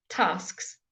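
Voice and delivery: Tasks with every sound clear; teacher repeats the model. Shown as a demonstration. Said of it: "we do say all of it".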